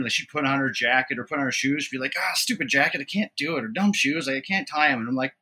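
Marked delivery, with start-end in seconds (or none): 2.2-3.6 mildly whiny mock grumble; retold complaint. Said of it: "she'd complain". 3.7-5.0 mock kid grumble, lightly exasperated; retold complaint. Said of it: "she'd complain".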